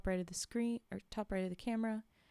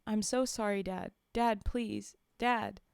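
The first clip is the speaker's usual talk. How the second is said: louder desperate begging; pleading; 4 dB louder, slower than usual. Acted. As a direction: beg your father not to leave.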